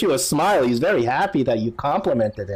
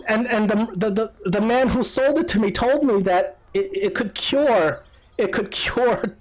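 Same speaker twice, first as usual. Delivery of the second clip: higher, plaintive voice with mild acted grief; halting, high, lightly tearful telling; tearful mother; 5 semitones higher than usual. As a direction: plead your story as a weeping mother. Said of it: "And then she starts crying".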